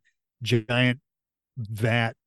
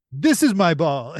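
louder, higher mock shout; hammed-up yell of ownership; Arnold Schwarzenegger yell; 5 semitones higher, 6 dB louder than usual. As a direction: call it down from upstairs, imitating a movie hero. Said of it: "he's, like, upstairs yelling at her".

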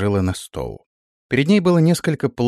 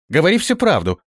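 a stern, raised command; stern order; 8 semitones higher, 3 dB louder than usual. Acted. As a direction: order her to tell the truth, high and firm. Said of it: "строго приказала Ганга". (строгий приказ)

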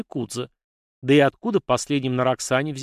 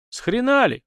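high, louder outraged snap; indignant outburst; 11 semitones higher, 4 dB louder than usual. Acted. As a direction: bristle with indignation. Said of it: "возмутился тот".

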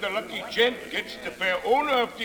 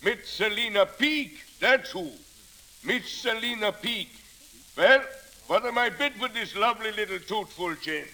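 laughing auctioneer. Acted. Auctioneer selling the teacher's box.

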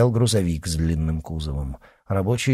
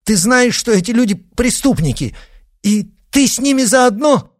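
loud and higher, shocked fury; angry exclamation; 14 semitones higher, 7 dB louder than usual. A narrator's reading. Father rages at his daughter, shouting high and loud. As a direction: cry out at her in outrage. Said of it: "гневно воскликнул отец".

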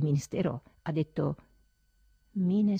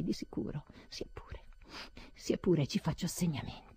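resigned whisper; 7 dB quieter than usual. Acted. Resigned inner monologue.

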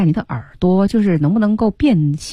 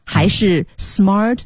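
two options slowly sounded out; slow careful enunciation; much slower than usual. Shown as a demonstration. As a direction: spell out each word slowly for comparison. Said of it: "究竟是smart wearings还是". (慢速清晰地读出两个选项)

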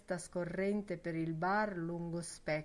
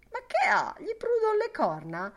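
high, louder mocking voice; mocking Lenihan; 6 dB louder than usual. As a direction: jeer at the hothead. Lenihan mocking Boylan's hurry.

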